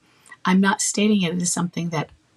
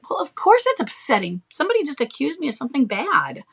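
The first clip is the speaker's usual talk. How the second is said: upset; 7 semitones higher than usual. Retold or imitated. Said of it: "you get really upset".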